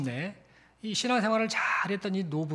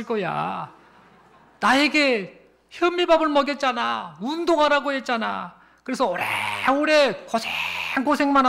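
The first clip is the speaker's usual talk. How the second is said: loud, high-pitched acted tirade; irritable old husband; 6 semitones higher, 5 dB louder than usual. Old husband blaming his wife for their late arrival, irritable. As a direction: scold with raised voice, dragging out the grievances. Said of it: "신경질적으로 대답을 합니다".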